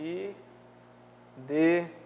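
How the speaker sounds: Ideológica said syllable by syllable, very slow; syllabified slowly. Shown as a demonstration. Teacher showing the class the split: Ideológica, slow and separated. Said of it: "Vai ficar assim, ó".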